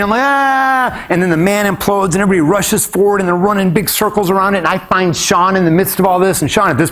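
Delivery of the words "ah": high, held-out "aah"; re-enacted cry caught between joy and frenzy; sustained high yell; high mock scream. His own cry amid the frenzy.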